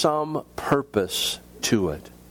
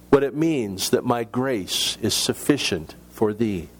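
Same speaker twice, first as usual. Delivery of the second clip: measured, heartfelt poem reading; sermon poem recital; poem recitation. Acted. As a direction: read the verses with feeling.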